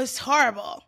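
"horrible" with a stretched Jersey first vowel; elongated-vowel accent. Shown as a demonstration. Co-host demonstrating the new accent, elongated Jersey vowels. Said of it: "Some vowels are just elongated".

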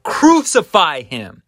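acted crowd shout, high and loud; crowd crying out. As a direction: call it out as the mob. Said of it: "And they cried out".

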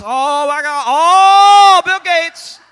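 high, loud hammed-up horror; building to a drawn-out, high mock scream; mock panic. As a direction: wail it in exaggerated alarm. Mock panic in heaven at Gates.

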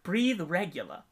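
slow Australian machine instruction; Australian accent. Retold or imitated. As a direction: imitate a drawn-out Australian recorded voice. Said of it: "it's an Australian voice".

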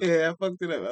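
real laugh breaking into the words; laughing admission. Real, not acted. Guest owning up to a botched accent, laughing. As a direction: own up while laughing.

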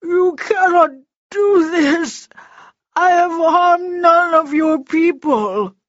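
high, loud desperate screaming; shrieked protest, drawn out at the end; Froggy. A narrator's reading. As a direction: scream a frantic plea for your life. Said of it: "Froggy screamed".

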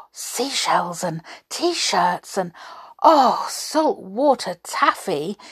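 Donald delighted by the souvenirs, excited; dreamy then bursting with excitement; crying excitedly. Acted. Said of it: "he cried excitedly".

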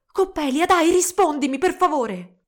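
high, loud, urging plea; insistent calling. A narrator's reading. Young woman urging her silent rival to answer, insistent. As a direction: call out and press for an answer.

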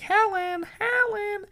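calling out very high from offstage; offstage yell. Acted. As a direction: shout the name from far off stage. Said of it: "yells off stage".

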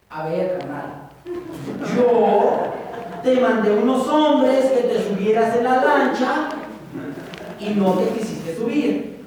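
God patiently listing the rescues he sent; God scolding. Acted. God answering the man. (Dios regañando, lento y luego fuerte)

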